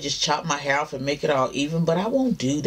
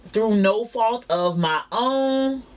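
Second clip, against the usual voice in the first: careful proper phrasing; 5 semitones higher, slower than usual. Real, not acted. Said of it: "I'm talking a little proper".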